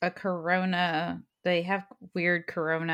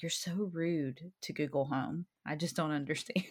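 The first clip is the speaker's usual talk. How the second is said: mock scolding; 7 dB quieter than usual. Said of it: "I'm like".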